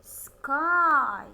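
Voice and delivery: loud teacher model word. Shown as a demonstration. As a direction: call it out loud for the class. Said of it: "What about this word?".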